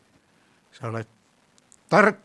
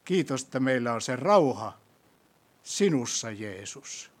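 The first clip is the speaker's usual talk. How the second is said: prayer. Acted. Leads closing prayer.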